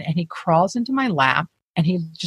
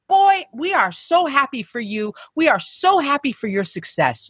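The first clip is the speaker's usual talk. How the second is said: retold congratulations; 6 semitones higher than usual. Acted man congratulating her effusively.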